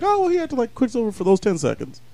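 high sarcastic mock concession; mocking sarcasm. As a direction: sneer it as fake agreement. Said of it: "I'm supposed to be like".

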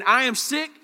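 fed up. Retold or imitated. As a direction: vent like a leader at the end of his rope. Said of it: "He's basically saying".

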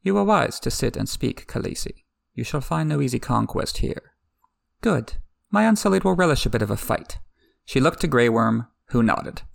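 reading a book scene aloud with light character voices; story reading. A narrator's reading. Recapping the book scene for listeners, read aloud. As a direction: read it like an audiobook passage.

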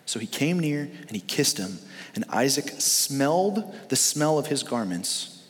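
measured reading of Genesis to the congregation; scripture reading. Acted. Reads the scripture passage aloud.

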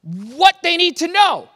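mock-frustrated, why not just say it; exasperated disciples. Disciples complaining to Jesus, exasperated and pleading. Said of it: "the implication here is".

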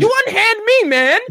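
high, loud acted outrage; indignant captive. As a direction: demand release in a squealed voice. Captive villain answers the attacker.

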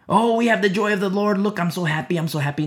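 lightly mocking gush, high then settling; a hint of fake delight; mock happy churchgoers. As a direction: imitate self-satisfied worshippers. Mimics congregants of comedian pastor.

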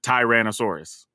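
"Tyrannosaurus" opening with TIE; disputed pronunciation. Shown as a demonstration. Doubting anyone says it so, "Tyrannosaurus" with a long i. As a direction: say "Tyrannosaurus" as tie-RAN-uh-sore-us. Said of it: "don't even know of a person that says".

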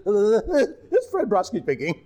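slow, laughing through an announcer's sign-off; sign-off broken by laughter, slowed. Retold or imitated. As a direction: say your name while cracking up. Rushed sign-off retold, laughing.

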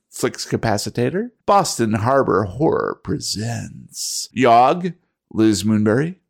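swooping, theatrical roll call with varied pitch; patron roll call announcer. Acted. Host thanks supporters by name, showy announcer style. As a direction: play up each name with its own showy lilt.

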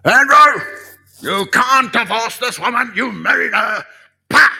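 loud, high, hammed-up shouting rebuke; mock shouting. Mock Holy Spirit yelling at Andrew about divorce. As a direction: bellow it like a stern preacher. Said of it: "He's not gonna stand up and say".

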